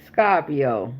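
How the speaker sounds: put-on "Scorpio" as "Scah-pio", Southern accent; imitated Southern accent. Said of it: "you even type in your accent".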